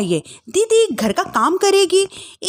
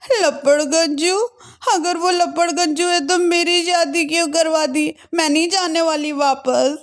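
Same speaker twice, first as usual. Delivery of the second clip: tearful disbelief. Acted. Elder sister tearful, half laughing.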